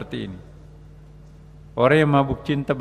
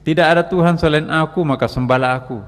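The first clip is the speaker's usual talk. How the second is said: raised, high-pitched mystic proclamation; ecstatic cry; 4 semitones higher, 5 dB louder than usual. Acted. Preacher imitating a God-intoxicated mystic crying out, loud ecstatic proclamation. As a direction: cry it out loudly like one spiritually intoxicated. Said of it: "teriak-teriak seperti ini".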